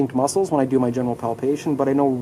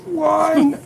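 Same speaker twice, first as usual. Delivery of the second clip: coaching count; 7 semitones higher, much slower than usual. Real, not acted. Counting a muscle hold.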